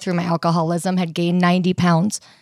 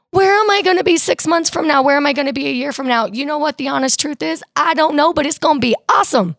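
excited; 6 semitones higher, faster than usual. Real, not acted. Excited about her future.

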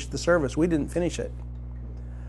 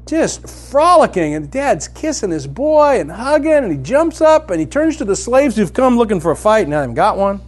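high, loud, driving sermon voice; fervent preaching; 9 semitones higher, 7 dB louder than usual. Acted. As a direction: preach it out with full fire. Preaching at full force.

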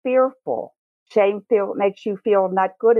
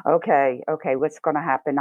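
nervous Dorothy; 2 semitones lower than usual. Retold or imitated. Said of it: "I'm Dorothy going up to the Wizard of Oz".

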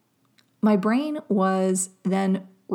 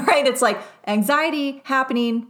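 laughing; 5 semitones higher, 4 dB louder than usual. Real, not acted.

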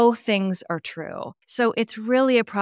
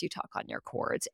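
vocal fry; 12 dB quieter than usual. Shown as a demonstration. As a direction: demo of vocal fry on the chords. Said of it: "where you talk like this".

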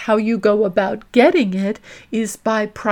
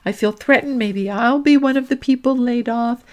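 anxious inner voice; 2 semitones higher than usual. Retold or imitated. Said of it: "all that's going on in your mind is".

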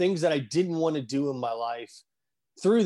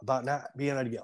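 choked up. Real, not acted. Guest recalling crying about getting home, choked up. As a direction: voice catching with held-back tears. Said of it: "Sorry, I get choked up".

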